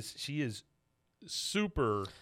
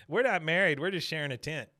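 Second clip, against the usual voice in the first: higher, louder mock Luann, cheerful; 5 semitones higher, 4 dB louder than usual. Host retelling Luann to the cowboy stars, higher mock voice. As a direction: chirp it out like a clueless cheery woman.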